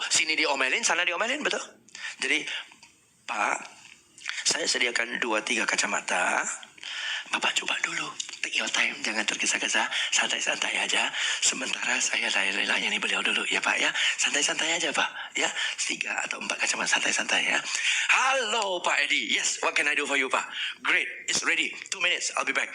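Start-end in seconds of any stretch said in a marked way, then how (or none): 2.2-17.6 slow, calm service. Shown as a demonstration. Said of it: "Dan sini kita slow". 18.1-22.7 brisk service. Shown as a demonstration. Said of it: "switching seperti ini".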